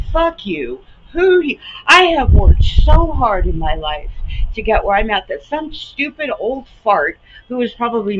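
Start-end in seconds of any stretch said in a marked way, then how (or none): 0.1-6.3 real anger. Real, not acted. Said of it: "I'm livid".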